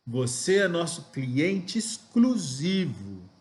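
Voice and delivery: slow pitch line, "exclusivo" stretched and stressed; emphatic intonation. Shown as a demonstration. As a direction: lean slowly into "exclusivo" to mark it. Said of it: "entonação é dar reforço".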